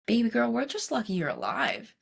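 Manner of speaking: a hint of a Russian oncologist's accent. Oncologist to her patient as she leaves, mild Russian accent. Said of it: "in her thick Russian accent".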